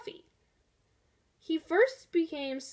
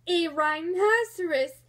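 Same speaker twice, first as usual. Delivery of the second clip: slow laughing question; mocking cry; 4 semitones higher, 4 dB louder than usual. Porcupine laughs at the rhino's name, amused cry. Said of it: "Fluffy cried".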